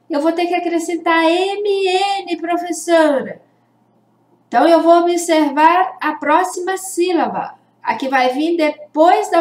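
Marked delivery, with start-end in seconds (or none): 0.1-3.4 lightly voiced pupil, higher pitched; pupil asking teacher. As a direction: ask the teacher like a puzzled pupil. (aluno perguntando, voz um pouco mais aguda)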